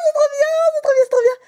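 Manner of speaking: thrilled chant; excited. Real, not acted. Pulling a great card. (exclamation ravie, beaucoup plus aiguë)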